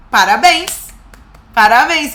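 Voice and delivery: mock-praise, pushed out emphatically; sarcastic congratulations. Real, not acted. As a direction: congratulate her with heavy irony. Ironiza a argumentação da advogada. (parabéns irônico e enfático)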